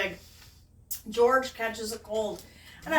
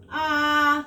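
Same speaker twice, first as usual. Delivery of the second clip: open wide ah; 3 semitones higher, 6 dB louder than usual. Acted. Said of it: "says George".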